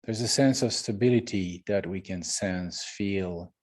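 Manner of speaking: unhurried meditation guidance with long pauses; guided meditation. Real, not acted. Teacher settling the group into the present moment, calm meditation guidance.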